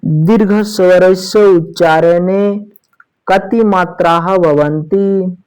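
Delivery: slow recited Sanskrit question; Sanskrit recitation. Acted. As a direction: recite it slowly, word by word.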